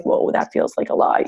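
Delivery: breathy, hushed mock awe; lightly voiced stunned fan next to NBA players; awed whoa. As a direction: act stunned beside a giant. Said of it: "automatically you're like".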